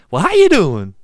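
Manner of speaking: high, jovial impersonated greeting; jovial Eddie Murphy impression. Podcast host imitates the actor's jovial tone, jovial impression. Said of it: "The, the jovial sound in his tone too".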